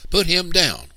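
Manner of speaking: loud, high shouted demand; ordering. A narrator's reading. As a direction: order them as charging children. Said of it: "we ordered, charging the lumbermen".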